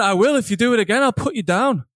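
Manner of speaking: put-on European accent. Old man insisting on his threat, European accent. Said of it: "some kind of European accent".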